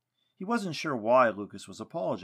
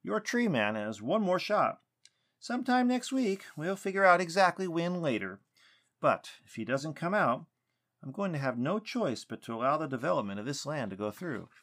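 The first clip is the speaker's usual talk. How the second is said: stern; 6 semitones higher, 3 dB louder than usual. A narrator's reading. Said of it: "his voice stern now".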